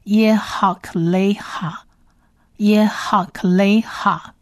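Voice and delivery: 耶哈克雷哈 slowly, syllable by syllable; slow repeated model. Shown as a demonstration. Teacher repeating the word for listeners, slow measured 耶哈克雷哈. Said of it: "每一个字词我们也会多念几遍".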